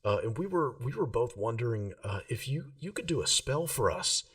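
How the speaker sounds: a shy fan begging a favour; nervous young Rill. Acted.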